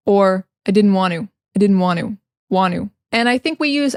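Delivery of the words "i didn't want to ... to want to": "want to" as "wan-oo", T dropped; casual American "didn't want to" without Ts; second reduced variation. Shown as a demonstration. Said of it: "we have two variations".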